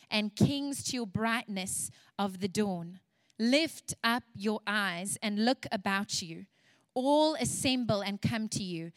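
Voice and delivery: measured, partly slowed reading of scripture. Acted. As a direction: read the promise over them, unhurried. Reads Isaiah 60 aloud.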